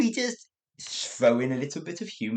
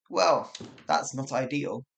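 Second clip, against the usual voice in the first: restrained British displeasure; ambiguous understatement, emotion held in; polite and poised. Shown as a demonstration. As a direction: keep the anger under polite wraps. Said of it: "One is polite, poised".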